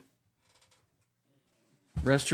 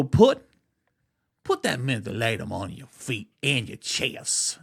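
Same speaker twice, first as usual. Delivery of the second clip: exaggerated yelp on the first put, then settling; a hammed-up wrong take of the old aunt; overdone great aunt. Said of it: "she wouldn't say it like that".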